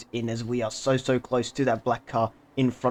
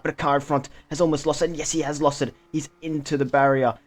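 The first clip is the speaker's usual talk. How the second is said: excited, higher-pitched race commentary; opgewonden racecommentaar; 4 semitones higher, faster than usual. Real, not acted. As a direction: call the crash as it happens, pitch lifting. Rival car crashes during race commentary.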